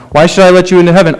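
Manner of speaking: quick rote question. Retold or imitated. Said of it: "they kind of spout it off".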